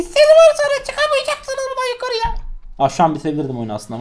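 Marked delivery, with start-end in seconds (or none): 0.0-2.5 high, mocking imitation of the teammate; high-pitched mock quote. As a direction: parody him in a silly high voice. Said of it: "Ve diyor ki".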